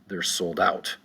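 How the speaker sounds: "out" carries the accent after "sold"; accent over the word "out"; stress on "out". Shown as a demonstration. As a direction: lean on "out" in "sold out". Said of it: "the accent is gonna be over the out".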